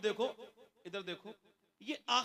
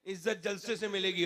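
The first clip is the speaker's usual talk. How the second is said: quoting popular belief. Retold or imitated. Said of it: "लोग समझते हैं कि". (लोगों की सोच, दबी आवाज़ में)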